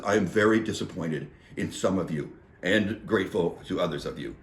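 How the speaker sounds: low, soft, mock-solemn disappointment; Mother Superior. Councilor to the audience, quietly disappointed Mother Superior. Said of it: "Mother Superior says".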